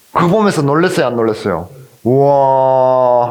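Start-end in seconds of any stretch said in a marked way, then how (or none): 2.0-3.3 long, slow held wow; drawn-out impressed wow, acted; mock amazement. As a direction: stretch out a put-on gasp of awe. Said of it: "하면서 놀랬죠".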